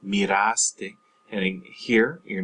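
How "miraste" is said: miraste stressed on RAS, mee-RAHS-tay. Shown as a demonstration. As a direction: lean on the middle a of miraste. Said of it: "you're just stressing that A".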